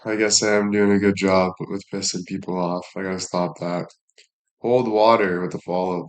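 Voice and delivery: ordinary talk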